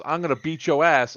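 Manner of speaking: retold threat. Imitating the crazy woman at Whataburger, mock threat. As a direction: lightly imitate an irate woman.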